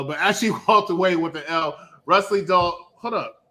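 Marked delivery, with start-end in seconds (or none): 0.0-1.8 laughing retake. Shown as a demonstration.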